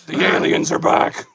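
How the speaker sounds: airy ghostly whisper of the line; eerie whisper. Pretend. Host repeating the alien warning, ghostly whisper. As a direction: breathe it like a ghost.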